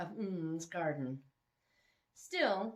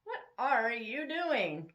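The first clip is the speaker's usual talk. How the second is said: slow, puzzled question in a lightly voiced young woman; woman catching a sneaking man, slow and puzzled; confused woman; 4 semitones higher, 5 dB louder, slower than usual. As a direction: catch him in the act, puzzled. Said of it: "met her confused gaze".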